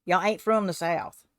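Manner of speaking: slow Southern drawl; Southern accent. Acted. Crafter repeating her Southern line for fun, slow Southern accent. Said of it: "to put that in a Southern accent".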